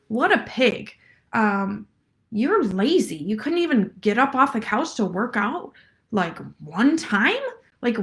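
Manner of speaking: a hint of a nasty coach sneering; mean jerk trainer. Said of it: "in my meanest, jerkiest voice".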